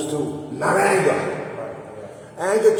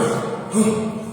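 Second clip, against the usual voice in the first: gasping demo; 6 semitones higher than usual. Shown as a demonstration. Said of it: "And I'm".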